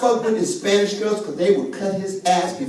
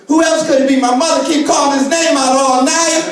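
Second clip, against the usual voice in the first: raised, insistent mock-kid protest; exasperated child retort; 4 semitones higher, 4 dB louder than usual. Niece insists to the Sunday school teacher, exasperated retort. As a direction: argue it as the obvious answer, higher.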